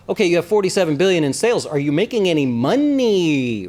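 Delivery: a lightly voiced blunt investor, slowing down on the question; a hint of Mister Wonderful pressing a founder about profit; Mister Wonderful impression. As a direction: grill the founder like a skeptical shark. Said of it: "That's how he says it".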